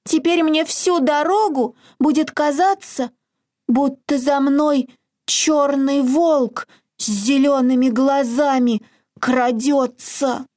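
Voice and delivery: high, timid hare voice; scared little hare. A narrator's reading. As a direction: tremble like a frightened bunny. Hare fears black wolf.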